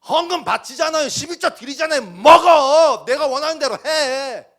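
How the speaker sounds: shouted, high, bossy demands; loud sarcastic imitation of a pushy giver; loud mock demand. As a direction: bark it like someone ordering God around. Preacher voicing demanding worshippers.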